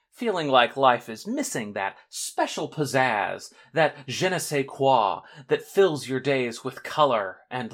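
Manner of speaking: lightly hammed-up commercial pitch; mock ad read. Announcer sells drama to bored listeners, mock ad read. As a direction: sell it like a sponsor spot, with punched phrases. Performs a mock sponsor spot.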